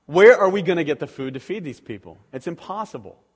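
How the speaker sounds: loud, exasperated protest; exasperated disciples. Retold or imitated. Preacher voicing disciples doubting Jesus, exasperated. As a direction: throw up your hands at an impossible task. Disciples' panicked question retold.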